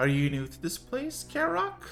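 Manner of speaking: excited, very high sing-song voice, eager, rising intonation. Voicing a temple girl who asks a newcomer a question: speaking excitedly. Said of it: "She nods excitedly".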